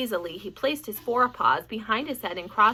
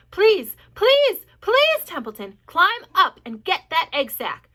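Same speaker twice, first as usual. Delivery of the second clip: begging; 8 semitones higher, 11 dB louder, slower than usual. A narrator's reading. Wilbur begging Templeton urgently.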